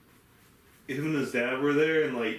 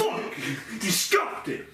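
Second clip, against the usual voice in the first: much higher, hammed-up; mock furious yell; 8 semitones higher, slower than usual. Replaying the manager's outburst for laughs, mock yell. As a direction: shout it like the cranky clerk.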